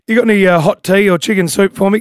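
tired, hoarse radio voice. Real, not acted. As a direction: voice almost gone, hoarse. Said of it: "my voice is almost cooked".

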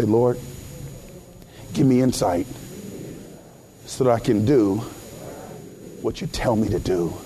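low, measured prayer in short phrases; led prayer. Real, not acted. Preacher leads bowed heads in prayer, low and measured.

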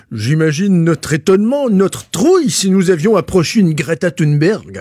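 mock French accent. Host reads Bernard Pivot's words, mock French accent. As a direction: read it like a French pundit, in an affected French accent. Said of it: "je vais le lire avec un petit accent français".

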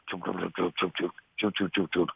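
soft quick duck feed call chuckles. Shown as a demonstration. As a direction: coax ducks in with quick chuckles. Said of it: "then you have the feed call".

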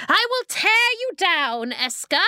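high, loud villainess shriek; furious scream. A narrator's reading. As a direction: scream the threat as a raging ice queen. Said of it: "the Ice Queen screamed".

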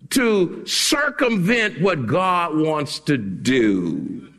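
very slow, weighty preaching phrases; slow emphatic preaching. Acted. Preacher warning church about sideline meetings, slow and weighty. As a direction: lay each phrase down slowly and heavily.

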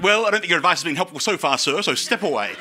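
lofty dismissal, rattled off fast; haughty. Retold or imitated. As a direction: look down on him and wave him off quickly. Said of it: "I was haughty man after that".

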